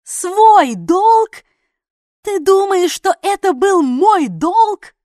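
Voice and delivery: put-on girl screaming at the deserter she saved; furious yell. A narrator's reading. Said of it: "заорала я".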